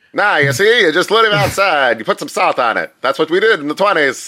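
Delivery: lightly voiced old-timey talker; a hint of twenties slang patter; 1920s voice. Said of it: "I said it in the, uh, twenties voice".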